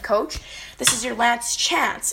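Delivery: slow, firm final warning; retold firm official, measured pace. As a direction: lay down a last warning slowly and firmly. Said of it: "And I said it very firmly".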